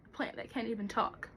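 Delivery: soft, quick afterthought; hushed, spent remark; deflated. Acted. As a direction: drop right down after the outburst. Outburst deflates.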